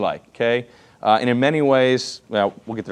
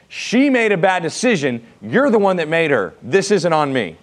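whiny blame-shifting; 3 semitones higher than usual. Retold or imitated. Pastor mocking Adam blaming God and the woman. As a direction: whine the excuse. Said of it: "Adam's very godly, leadership-driven response".

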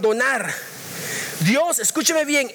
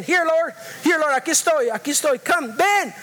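pleading call; 2 semitones higher than usual. Retold or imitated. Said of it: "porque hablaba inglés también".

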